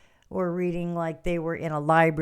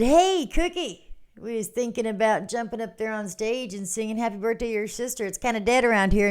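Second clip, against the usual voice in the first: cheery greeting; 4 semitones higher than usual. Retold or imitated. Calling Cookie over with a higher cheery hey. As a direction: sing out the hey then talk it through. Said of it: "And I said".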